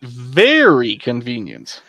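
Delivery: slow, dry repeat; slow deadpan repeat of the driver's line; deadpan echo. Acted. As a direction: say it slowly and flatly. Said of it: "I just kinda repeat".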